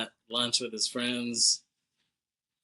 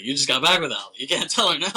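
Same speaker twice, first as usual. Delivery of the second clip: incredulous protest; 3 semitones higher, 6 dB louder, faster than usual. Retold or imitated. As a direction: play a friend talking him out of it. Acting out friend objecting in disbelief.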